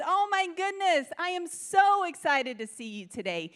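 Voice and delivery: high, bright-eyed gush on "Oh my goodness"; a hint of a gushing church greeter; gushing greeting. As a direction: greet her like a long-lost friend. Bubbly greeter voiced for I.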